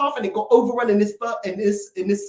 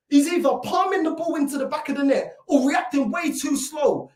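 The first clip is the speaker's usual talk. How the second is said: shouted in frustration; raging fan shout; angry shout; 3 semitones higher than usual. Real, not acted. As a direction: yell it at the keeper. Ranting about the keeper.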